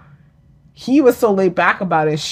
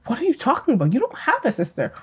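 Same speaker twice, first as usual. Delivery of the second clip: softer, higher imitation of a sincerely puzzled mother; retold genuine bafflement; 5 semitones higher, 5 dB quieter than usual. Mother genuinely tells daughter she has no sister, soft retold puzzlement. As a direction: quote the mother as if she truly means it. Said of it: "Like, genuinely was like".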